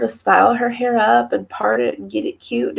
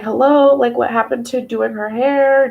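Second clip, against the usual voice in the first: exasperated hello; 4 semitones higher than usual. Retold or imitated. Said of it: "I was like".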